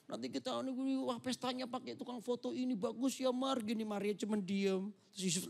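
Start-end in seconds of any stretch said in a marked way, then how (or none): 0.1-3.6 higher, eager fiancé planning a wedding; excited groom. Acted. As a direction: gush about the new house. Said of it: "aku ini ngomong cerita excited ini".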